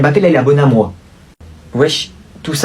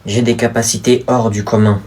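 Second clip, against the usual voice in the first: cringey drama acting; 4 semitones lower than usual. Boy confessing his dangerous powers to his sister, soap-opera style. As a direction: overplay a tragic secret. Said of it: "le jeu d'acteur en frisson de gêne".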